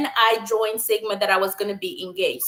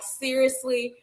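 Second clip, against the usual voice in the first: ordinary talk, nothing marked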